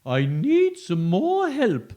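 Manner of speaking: high, loud, slow ghostly plea; ghost asking for help. Acted. Ghost asking for help, ghostly plea. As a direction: plead like a ghost. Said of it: "said the ghost".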